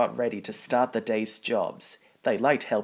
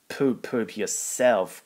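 cross grumble; slower than usual. Acted. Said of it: "grumbled Gordon crossly".

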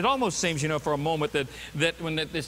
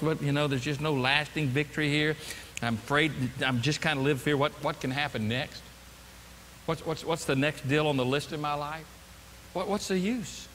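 dispirited; 4 semitones lower than usual. Acted. Voicing a joyless, defeated Christian.

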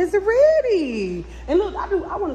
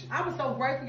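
hushed; 9 dB quieter, faster than usual. Real, not acted. Hushing down in the elevator.

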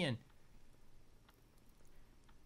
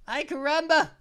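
louder, punchy exclamation; exclaimed catchphrase; 4 semitones higher, 5 dB louder than usual. Pretend. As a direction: throw it out with gusto. Repeats catchphrase twice.

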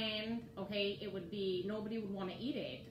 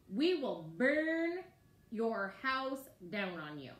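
slow menacing threat, louder on burn; threatening; 2 semitones higher, 5 dB louder, slower than usual. Acted. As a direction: hostile men threatening Jephthah. You can see their attitude.

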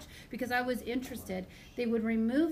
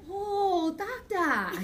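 high, loud put-on Asian accent; hammed-up drugged mom in a mock Asian accent; 8 semitones higher, 6 dB louder, much slower than usual. Drugged mom to her doctor, in a mock Asian accent. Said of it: "accents all the time".

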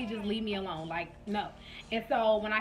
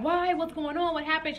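retold panic; 5 semitones higher than usual. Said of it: "So I'm just like".

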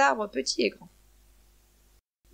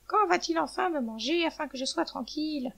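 higher-pitched questioning thought; weary hen; 5 semitones higher than usual. Acted. Hen wonders when she'll be eaten, lightly exasperated. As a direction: plead inwardly for it to be over.

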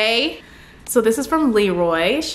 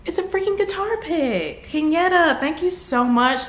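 much higher, delighted exclamation; thrilled high thanks; 9 semitones higher than usual. Real, not acted. YouTuber thanking a fan for a guitar pick, high thrilled gush. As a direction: gush in disbelief. Overjoyed at gift.

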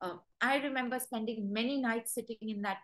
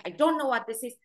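voicing a dog that snaps back, louder; a dog's angry warning, said loud; louder mock threat from a scared dog; 5 dB louder, faster than usual. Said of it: "And they say".

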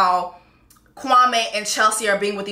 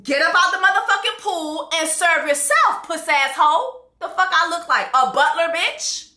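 mock angry retort; 4 semitones higher than usual. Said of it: "Kwame's response".

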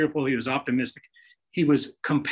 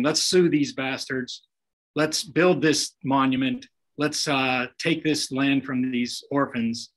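slow, sneering mock villain dictating; mock villain letter; slower than usual. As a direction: read it out like a greedy tycoon, drawn out. Imagined greedy rich man's letter.

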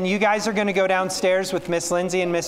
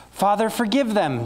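a mild gasped plea, slightly higher; gasped words; 6 semitones higher than usual. Acted. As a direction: push the words out on short breaths. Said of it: "Jesus gasped".

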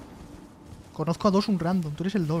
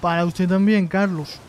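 put-on Colombian accent. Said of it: "Hoy sí te salió el colombiano".

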